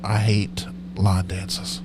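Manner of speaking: ordinary delivery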